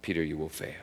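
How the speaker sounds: soft verdict. Real, not acted. Preacher softly repeating Jesus' verdict to Peter. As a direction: say it gently, almost to yourself.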